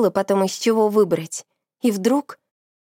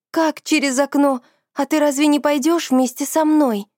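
alarmed surprise; 5 semitones higher than usual. Acted. Friend alarmed at being alone.

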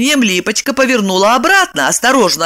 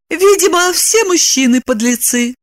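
calm; 5 semitones higher than usual. Acted. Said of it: "спокойно сказала".

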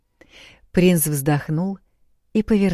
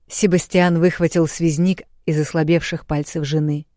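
ordinary delivery, nothing marked

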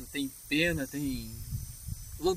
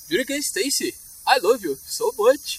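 Indian accent; 2 semitones higher, much slower than usual. Shown as a demonstration. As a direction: do a put-on Indian accent, drawing out the end. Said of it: "treinando o meu sotaque da Índia".

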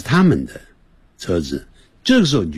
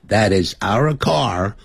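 慢速示范回答; slower than usual. Shown as a demonstration. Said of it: "你也一样回答说".

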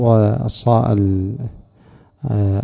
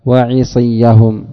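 Quran recitation. Acted. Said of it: "وقال سبحانه".

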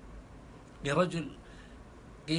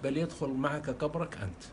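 softer, composed comeback; calm quiet reply; 3 semitones lower, 5 dB quieter than usual. Retold or imitated. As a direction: answer the insult gently, unbothered. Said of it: "قال أبو بكر بهدوء". (رد هادئ خافت)

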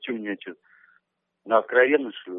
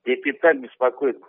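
raised voice for a bad line; to someone hard of hearing; 3 semitones higher, 4 dB louder than usual. Real, not acted. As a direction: speak up so they hear. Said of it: "погромче можешь говорить?".

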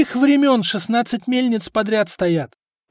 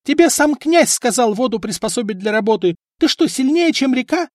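high, much louder shrill wife's yell; 10 semitones higher, 7 dB louder than usual. A narrator's reading. Wife yelling at husband and apprentices, loud. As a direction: scream at the lazy crew. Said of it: "продолжала орать жена".

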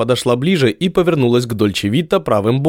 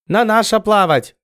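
high, alarmed broken Russian; 9 semitones higher than usual. Acted. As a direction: Chinese sailor warning of approaching galley, alarmed. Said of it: "встревожился Сядзы".

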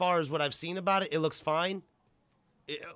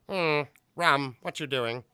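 a hint of a suspicious posh father; lightly voiced Tim Curry dad; British dad voice; slower than usual. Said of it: "I can picture him going".

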